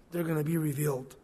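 hushed repeat for effect; soft echo. Acted. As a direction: drop the voice for the echo. Repeated line, second said softly.

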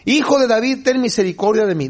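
lightly acted cry for mercy; mock calling out. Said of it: "Empieza a gritar".

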